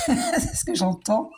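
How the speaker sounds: chuckling through the words about money; amused, laughing as she tells him he loves money. Real, not acted. Tarot reader teasing the viewer about loving money, laughing.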